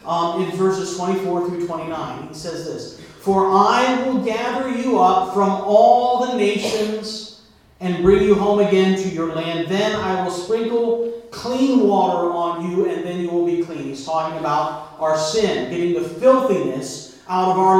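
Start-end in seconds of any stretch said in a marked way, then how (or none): 3.2-13.8 slow, weighty reading of the verse; solemn scripture reading, drawn out. Acted. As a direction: read it out like a proclamation. Reads Ezekiel passage.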